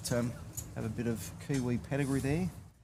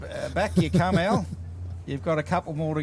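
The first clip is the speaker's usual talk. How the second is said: quoting Pat; 5 semitones higher, 5 dB louder than usual. Retold or imitated. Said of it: "Pat said".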